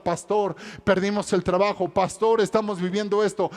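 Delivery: a worried believer pleading with the pastor, voice climbing; imitating a distressed church member; pleading congregant. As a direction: lay out the troubles, building to a mild cry. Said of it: "Y muchos dirán".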